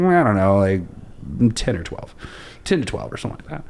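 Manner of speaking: casual, offhand imitation of a reply; nonchalant. Girl answering how many languages she speaks, nonchalant. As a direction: shrug it off as no big deal. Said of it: "like, nonchalant".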